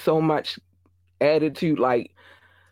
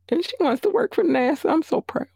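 much higher, gushing; proud mom; 13 semitones higher than usual. Real, not acted. Mother bragging about daughter wanting NASA, gushing high. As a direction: beam with pride, voice soaring up.

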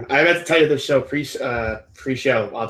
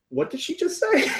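laughing disbelief; 5 dB quieter than usual. Retold or imitated. Friend's stunned reaction retold, laughing.

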